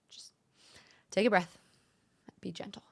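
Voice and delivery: "take a breath," then "be gentle" dropped to a whisper; breathy whisper fading on "be gentle". Shown as a demonstration. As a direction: ease the words out as a gentle self-reminder. Repeating her own calming mantra.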